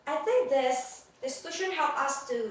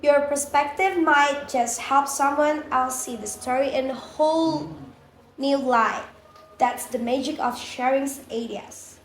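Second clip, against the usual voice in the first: loud; 8 dB louder than usual. Real, not acted. Loud outro to listeners.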